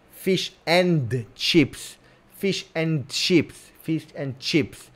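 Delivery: "Fish and chips." stretched slowly, leaning on "and"; slow drawn-out fish and chips. Shown as a demonstration. Explaining to chat where the T comes from, slow and drawn out. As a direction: drag out "Fish and chips." so the D of and runs into chips. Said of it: "You finish with a D".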